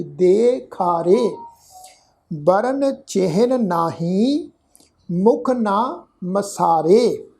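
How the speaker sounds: slow, measured recitation of scripture. Shown as a demonstration. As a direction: lay out each word slowly so learners can follow. (धीमा, ठहरा हुआ पाठ)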